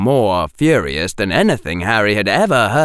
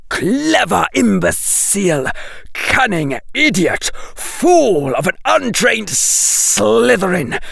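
high, slow, angry serpent voice; a seething snake hurls insults; angry hiss; 9 semitones higher, slower than usual. Acted.

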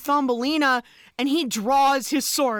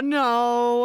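dismayed shout; 3 semitones lower than usual. Real, not acted. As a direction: blurt out a horrified no. Reacting to mole wedding.

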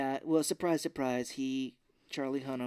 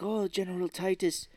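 higher, louder theatrical address; put-on villain pomp; mock grand villain; 4 semitones higher, 4 dB louder than usual. Villain saluting the captured general, mock grand.

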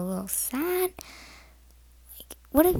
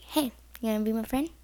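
quick, casual, friendly invitation; nice voice; faster than usual. Shown as a demonstration. Showing how to befriend a bullied kid, nice voice. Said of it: "like, nice voice".

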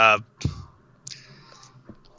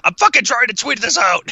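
mock annoyed; 11 semitones higher than usual. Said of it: "And you're just like".

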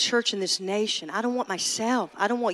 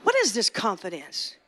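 taunting enemy. Acted. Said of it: "taunting voice of the enemy".

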